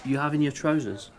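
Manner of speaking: lightly plummy British sketch voice; a prim English gent remarking; a touch of upper-class British; posh English accent. Acted.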